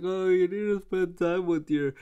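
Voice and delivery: a hint of a tearful mother; mom voice. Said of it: "She's like".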